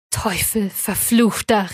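slow, drawn-out curse of abhorrence; deep contempt. A narrator's reading. Creator curses the demon before him, with contempt. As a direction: draw out the curse with restrained loathing. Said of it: "Worten der tiefsten Verachtung und des äußersten Abscheus".

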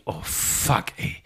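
breathy, hushed oh-no curse; dismayed curse. Retold or imitated. Speaker realizing the wallet mess, hushed dismay. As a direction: let it slip out under the breath, caught out.

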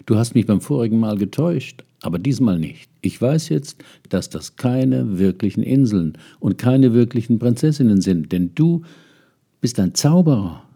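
no longer fooled, and letting him know; indignant. Acted. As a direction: prince accusing the man on the shore, indignant. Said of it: "sagte der junge Prinz entrüstet".

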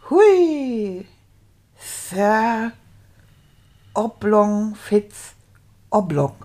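measured read-aloud with stretched hard words; careful story reading. Acted. Beginner telling of the little fat knight, reading carefully. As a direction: read the tale out phrase by phrase.

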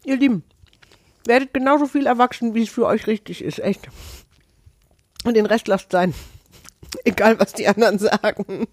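talking with a mouth full of chocolate. Real, not acted. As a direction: speak round a mouthful of food. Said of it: "mit vollem Mund den Podcast zu Ende moderiert".

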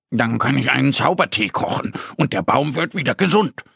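lightly voiced bear, quick and keen; Mo explaining. Mo the bear explains his magic tea idea, quick and eager. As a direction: rush through his plan like an eager young bear. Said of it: "erklärt Mo".

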